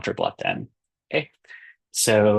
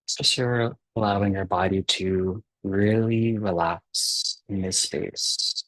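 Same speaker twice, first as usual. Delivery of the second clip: unhurried meditation guide with long pauses; calm guiding voice, softening and slowing towards the breaths; guided meditation. Acted. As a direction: ease them gently into relaxing, leaving space between phrases.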